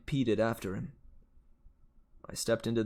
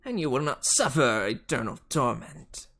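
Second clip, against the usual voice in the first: lightly voiced Southern villain; shaky Southern accent; 2 semitones higher than usual. A narrator's reading. Fury teacher bargaining with the hero, attempted Southern accent. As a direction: threaten with a hint of Southern accent. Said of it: "I'm struggling a bit with the Southern accent".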